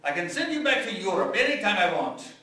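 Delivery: father threatening. Retold or imitated. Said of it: "My father would say".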